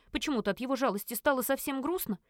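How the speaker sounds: ordinary delivery, nothing marked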